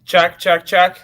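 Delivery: mic check through the laptop microphone; testing on the built-in laptop mic. Real, not acted. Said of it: "Sounds like your laptop mic to me".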